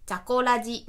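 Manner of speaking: mock text-to-speech deadpan on one level pitch; imitated monotone reading. Host showing how free read-aloud software says the show title, monotone. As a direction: read it like a kid who is bad at reading aloud. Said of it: "音読下手くそな子供が読んだみたいな".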